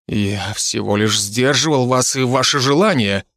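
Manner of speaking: fake trembling voice. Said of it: "мыслеречь правдоподобно задрожала".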